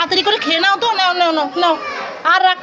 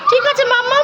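put-on childlike voice; 3 semitones higher, faster than usual. Mother plays the child.

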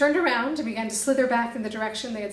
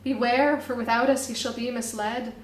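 street poem recital. Acted. Busker reciting his poem to onlookers, declaiming. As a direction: perform it for the crowd like a street poet. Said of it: "recite his slick street poem".

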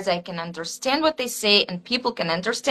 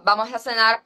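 another Latin American accent; much faster than usual. Shown as a demonstration. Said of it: "some Latin accent".

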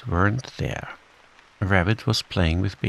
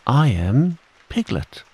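higher, emphatic declaration; loud insistence; 6 semitones higher than usual. A narrator's reading. Piglet tells Kanga who he is, high and insistent. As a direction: insist on who you are. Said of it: "said Piglet loudly".

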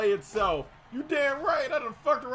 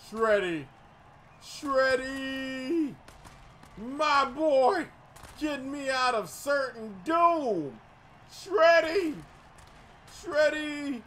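excited call; slower than usual. Real, not acted. Calling out to player Shreddy.

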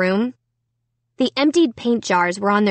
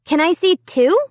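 calling out; 7 semitones higher, 4 dB louder than usual. A narrator's reading. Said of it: "I called".

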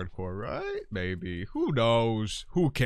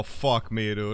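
ordinary delivery

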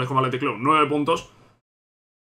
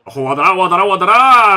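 rising, louder repeated name call; breakneck goal commentary; 2 semitones higher, 7 dB louder than usual. Real, not acted. Calling player in attack. (comentario frenético de gol)

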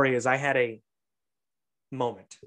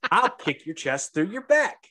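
mock threat; 5 semitones higher than usual. Repeats the other man's threat.

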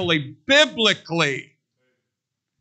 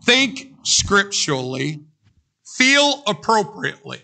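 slow emphatic preacher's slogan; preaching slogan. Acted. Preacher to congregation, slow emphatic slogan. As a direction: proclaim each word to the congregation.

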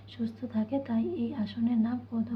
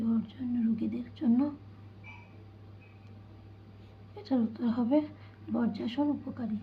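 whispering. Real, not acted. Whispered lesson reading.

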